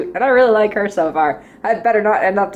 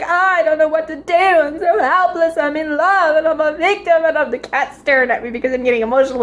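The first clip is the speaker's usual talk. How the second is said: mock lovesick; 4 semitones higher than usual. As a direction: parody a swooning victim of love. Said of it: "not this love at first sight".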